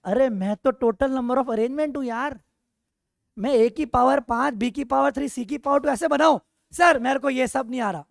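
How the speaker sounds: lightly voiced coefficient, a bit loud and insistent; talking coefficient. Coefficient announcing itself to the class, lightly acted declaration. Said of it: "coefficient कह रहा है".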